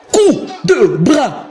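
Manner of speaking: high, slow drawn-out shout; excited call. Acted. Calling a big hit live.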